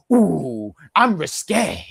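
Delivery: a light, mock-haughty "Ooh, I'm risque"; mocking fan voice. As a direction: lightly put on, teasing clueless fans. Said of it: "and they said".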